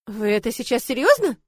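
shouted. Acted. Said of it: "выкрикнула я".

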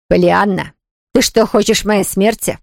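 ordinary delivery, nothing marked

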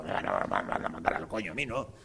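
a lightly voiced grumpy Spaniard saying no; deep-voiced no no no; mock refusal.

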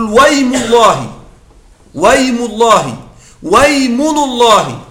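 "ويم الله" and "ويمن الله" glided as "waymu-llahi, waymunu-llahi", slowly; hamza dropped after waw. Shown as a demonstration. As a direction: draw out "ويم" with و joined straight to the y, no glottal stop. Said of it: "همزتهما همزة وصل". (نطق "ويم الله" و"ويمن الله" ببطء مع إسقاط الهمزة بعد الواو)

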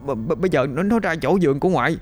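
put-on boy stumbling over every word in fright; breathless terrified stutter. A narrator's reading. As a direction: gasp it out in panic to grandma. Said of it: "nói không ra hơi".

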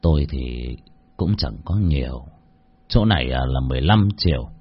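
put-on an old man gently handing over his savings; sincere. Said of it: "rồi thật thà bảo".

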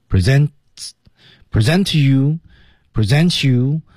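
"present you" slowly linked, the t running into "you"; 连读示范. Shown as a demonstration. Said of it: "连读". (慢速示范“present you”连读)

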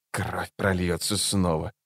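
low, soft, slow whisper; ninja whisper. Acted. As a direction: hiss it quietly like a killer. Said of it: "прошептал убийца".

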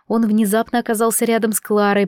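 ordinary delivery

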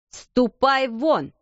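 slow, clipped angry command; angry order. Acted. Headmistress orders the crying maid out, slow and angry. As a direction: throw her out. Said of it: "крикнула мисс Минчин".

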